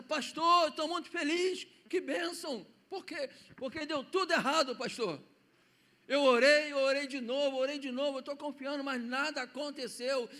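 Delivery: put-on child bursting to tell the pastor his news; excited child. Boy joyfully telling the pastor everything went wrong. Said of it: "E aí aquela criança".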